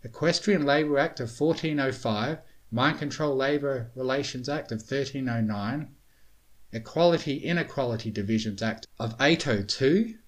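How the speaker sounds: lightly acted reading of headings; reading titles aloud. A narrator's reading. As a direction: read each title off in puzzlement. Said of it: "reading the titles as they drifted".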